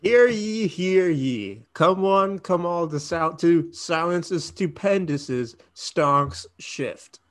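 booming herald proclaiming to the crowd; town crier. Acted. Mock proclamation for ad read.

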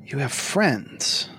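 slow, doubting Lich; incredulous. Acted. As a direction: drag out the disbelief.

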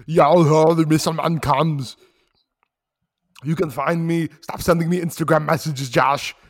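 put-on Arnold Schwarzenegger accent, speeding up. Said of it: "continue the accent".

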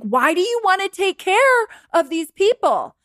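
high-pitched, exasperated question; incredulous. Retold or imitated. Coach questioning a client who wants to please, incredulous.

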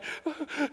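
high, soft imitated child's sobs; mock sobbing. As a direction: sob softly like a spanked little child.

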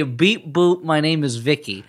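beep-boop robot voice, lightly done; a hint of a toy robot. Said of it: "She should say".

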